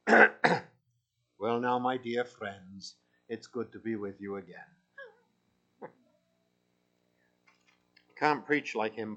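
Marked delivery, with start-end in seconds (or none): 0.1-4.7 put-on father's Welsh preacher accent, slow and warm. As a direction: greet them like an old Welsh preacher. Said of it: "but I can do his accent".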